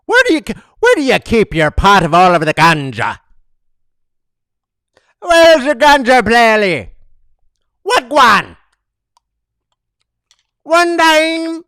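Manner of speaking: high, loud mock Jamaican leprechaun; hammed-up leprechaun with a Jamaican lilt; silly high Jamaican leprechaun voice. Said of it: "is a Jamaican leprechaun".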